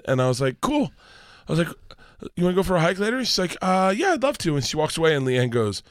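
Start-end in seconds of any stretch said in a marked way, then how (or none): 0.6-4.6 higher, sugary casual voice; fake-sweet dad. Dad offering his daughter a hike, fake-sweet and higher. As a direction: play it sweet and innocent.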